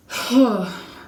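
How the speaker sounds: loud heavy sigh; loud fed-up sigh; exasperated sigh. Real, not acted. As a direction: blow out the frustration. Frustrated after store fight.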